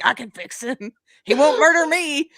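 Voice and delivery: mock-deluded devotee, pitch lifting to a loud finish; lightly put-on gushing fangirl; besotted groupie. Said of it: "groupies for serial killers".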